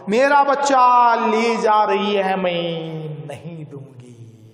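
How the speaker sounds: put-on cling to the child in anguish; anguished plea. Mother pleading with the constable, anguished and fading. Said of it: "तड़प कर बोली".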